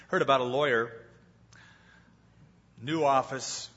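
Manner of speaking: usual speaking voice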